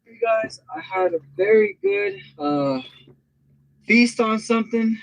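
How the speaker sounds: breathless, high after a heavy meal; catching breath between words. Real, not acted. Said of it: "I'm sort of out of breath".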